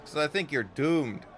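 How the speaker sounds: voz sombria; grim Anna. Acted.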